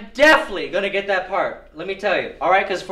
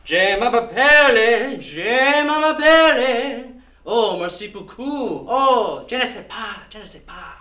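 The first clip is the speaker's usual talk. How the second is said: fake French. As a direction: show off bad French proudly. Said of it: "Can I hear some of it".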